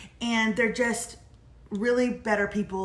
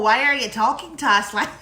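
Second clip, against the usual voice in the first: mock Dakotas accent; 6 dB louder than usual. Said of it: "talking like you're in, uh, the Dakotas".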